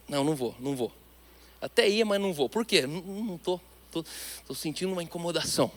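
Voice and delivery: soft, hesitant inner voice talking itself out of it; reluctant murmur. Retold or imitated. Pastor imitating a believer resisting the feeling, hushed and hesitant. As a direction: mumble the excuse quietly to yourself.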